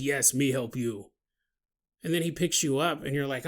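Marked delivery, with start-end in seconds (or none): 0.0-1.1 low, softer cave-man creature voice; simple beast offering help, pitched down; lumbering helper, low and soft; Bigfoot. Acted. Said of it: "And Bigfoot goes".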